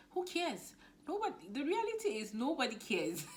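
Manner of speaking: high laughing "who cares"; laughing scoff. Real, not acted. Vlogger mocking her old videos, laughing loudly.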